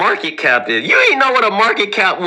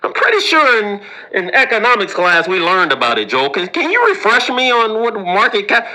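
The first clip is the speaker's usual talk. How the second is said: pretend smart person; 2 semitones higher than usual. Harvard grad asking Joel for a refresher, lightly mock. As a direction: fake knowing it. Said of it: "this is how people that are intelligent".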